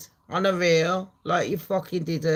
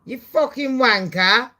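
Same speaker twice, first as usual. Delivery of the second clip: loud, higher, snapped-out mock insult; mock Trump outburst; 6 semitones higher, 6 dB louder than usual. Comedian voicing Trump snapping at Elon, loud mock insult. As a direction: bark it like an outraged boss. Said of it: "Then Trump went".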